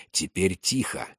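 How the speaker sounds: low, soft near-whisper; quiet command kept under the breath; hushed whisper. A narrator's reading. Officer hushing his men as the wagons approach, whispering low. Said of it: "прошептал он".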